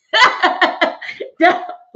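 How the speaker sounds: loud unvoiced cackle; high cackle. Real, not acted. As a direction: burst of high breathy laughter. Laughing at her own joke.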